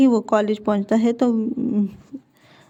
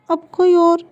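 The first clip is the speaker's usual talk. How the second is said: higher and louder cry of despair; anguished outburst; 7 semitones higher, 6 dB louder, slower than usual. Retold or imitated. Son tells friends of new match, anguished and loud. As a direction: burst out in frustration.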